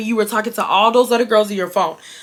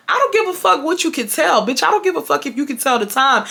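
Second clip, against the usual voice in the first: higher-pitched, indignant retort; retold angry comeback; 5 semitones higher than usual. Woman cutting off her ex on the phone, indignant comeback. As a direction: fire back in exasperation, pitched up.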